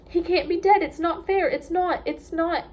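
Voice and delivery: sobbing protest. A narrator's reading. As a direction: wail that it can't be true. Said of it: "she cried".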